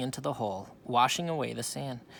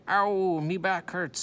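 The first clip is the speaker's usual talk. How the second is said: cried out; 7 semitones higher, 7 dB louder, slower than usual. A narrator's reading. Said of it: "Stinky cried".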